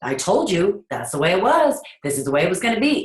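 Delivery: smug, unyielding parent laying down the law; rigid know-it-all parent. Retold or imitated. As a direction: play the parent who refuses to budge. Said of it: "we have that attitude".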